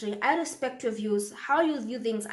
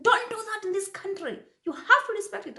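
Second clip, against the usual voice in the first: higher pitched, lightly voiced scold; scolding old woman; 10 semitones higher than usual. Old woman scolding the speaker for crossing on red, higher voice. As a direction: play the stern neighbour, lifted voice. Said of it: "And she was like".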